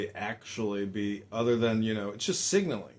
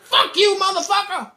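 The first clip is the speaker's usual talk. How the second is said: high, shouted curse; hammed-up screaming comeback; angry retort; 13 dB louder than usual. Storyteller voices the man cursing back, furious.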